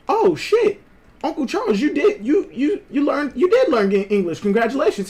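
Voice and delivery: mock surprise. Mock-surprised teasing of his uncle.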